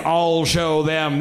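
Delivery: slow, grudging mutter; angry muttering. Retold or imitated. Angry planner in a corner, slow grudging mutter. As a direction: grumble it with slow resolve.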